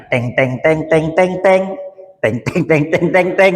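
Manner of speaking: voicing a TV drama sting with teng; mock soap-opera music cue; imitated music sting. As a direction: sing the dramatic reveal music. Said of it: "Terus muncul musiknya".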